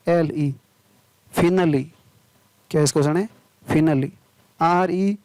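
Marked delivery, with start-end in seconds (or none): 1.3-1.8 फिनली ending in a short "i"; फिनली with final e voiced as short "i". Shown as a demonstration. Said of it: "सोटी ई होता है". 3.7-4.1 फिनली ending in a short "i"; फिनली with final e voiced as short "i". Shown as a demonstration. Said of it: "सोटी ई होता है".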